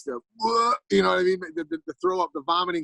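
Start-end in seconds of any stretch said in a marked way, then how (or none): 0.4-0.7 a quick imitated gag, pitched up; mock retching whoa. Hammed-up vomiting sound. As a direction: sailors mocking a seasick rookie with a gag noise. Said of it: "the sound effects".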